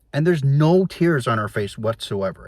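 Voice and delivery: ordinary delivery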